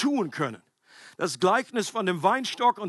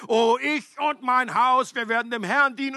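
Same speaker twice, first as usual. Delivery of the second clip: mock enthusiasm; 4 semitones higher, 4 dB louder than usual. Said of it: "so nach dem Motto Motivation und Worship-Band".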